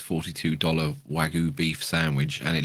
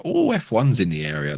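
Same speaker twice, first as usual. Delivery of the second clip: bad American accent, barely there; a weak stab at an American twang; terrible American accent; 3 semitones higher than usual. Co-host mocks new F1 fans in a bad American accent. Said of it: "that was a terrible American accent".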